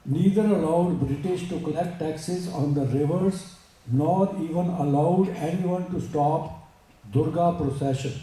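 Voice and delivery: slow, measured English recitation; formal read-aloud. Acted. Speaker reading a great woman's story to listeners, slow formal read-aloud. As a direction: read it out word by word, slowly.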